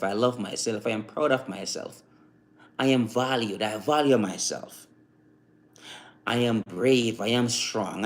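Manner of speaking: low, soft, evenly repeated affirmations. Shown as a demonstration. Man training himself to talk positively, calm affirmations. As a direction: recite each one steadily, like a daily drill. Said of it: "hear the way how I spit these".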